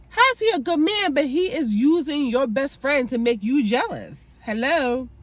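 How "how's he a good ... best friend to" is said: indignant rhetorical question; indignant high demand. Real, not acted. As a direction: challenge it like it makes no sense.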